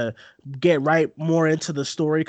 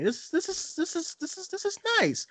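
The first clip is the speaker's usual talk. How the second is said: higher, softer, choking up on the words; welling up; 6 dB quieter than usual. Retold or imitated. Friend retelling watching the video, voice breaking softly. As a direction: let the voice catch as tears come. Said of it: "this is kinda getting me".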